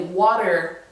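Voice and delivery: water pronounced like "wadder". Shown as a demonstration. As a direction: say water with a D in place of the T. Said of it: "with a D".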